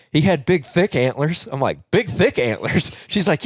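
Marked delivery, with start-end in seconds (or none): 1.9-3.0 slow, raised, questioning repeat; incredulous echo. Retold or imitated. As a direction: echo it back in mock disbelief. He echoes her answer in disbelief.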